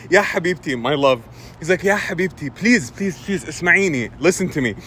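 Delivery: soft, gentle pleading; calm coaxing grandpa. Retold or imitated. Grandpa behind the door to toddler, calm coaxing. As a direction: coax a child tenderly. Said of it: "he was, he was calm".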